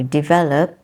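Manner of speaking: "develop" as de-VEL-op; stress second syllable. Shown as a demonstration. Teacher corrects herself on the verb, stress second syllable. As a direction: put the weight on VEL in "develop". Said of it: "stress is in the second syllable".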